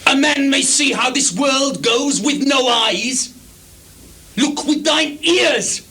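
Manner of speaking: mad exclamation. Acted. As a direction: proclaim it like a revelation. Lear exclaims at Gloucester.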